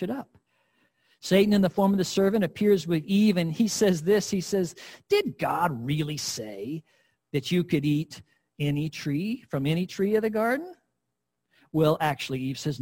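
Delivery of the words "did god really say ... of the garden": devil's voice. Acted. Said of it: "what the devil's voice sounds like".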